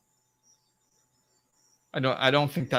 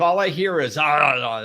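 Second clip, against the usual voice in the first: loud, garbled "ah, ah, ah"; imitated yelling noise; 5 dB louder than usual. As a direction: mimic the blare of someone yelling. Imitates noise of being yelled at.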